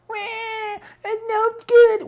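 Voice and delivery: very high whining voice; mock whiner. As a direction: whine it out in a squeaky high pitch. Imitates whiners in your life.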